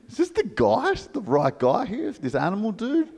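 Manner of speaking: high-pitched earnest lecture; lightly voiced vegan lecturing the newcomer; preachy animal lover.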